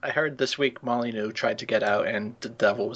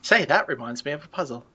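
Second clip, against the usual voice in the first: a put-on British accent, a bit higher; 4 semitones higher than usual. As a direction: say it like a posh Brit. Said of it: "we're breaking out that accent".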